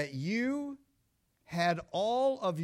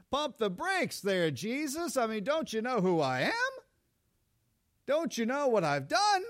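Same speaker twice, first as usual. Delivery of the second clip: indignant self-righteous; 3 semitones higher, 3 dB louder than usual. Acted. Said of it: "The religious lost are gonna look at him and say".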